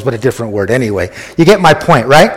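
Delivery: normal talking voice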